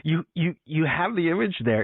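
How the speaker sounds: high, giggly talk; laughing. Real, not acted. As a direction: giggle through the words. Laughing while talking.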